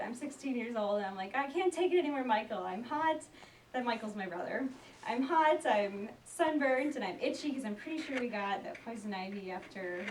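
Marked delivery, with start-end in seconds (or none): 1.3-3.2 put-on teen fit. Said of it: "I just throw myself down and I have a fit". 5.1-7.5 put-on teen fit. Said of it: "so I'm just having a fit".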